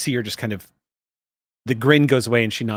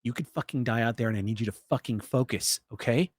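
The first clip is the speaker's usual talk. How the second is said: stern scolding; 2 semitones lower, 7 dB quieter than usual. Acted. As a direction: keep your voice down and scold. Piper scolds Tara after yanking her up.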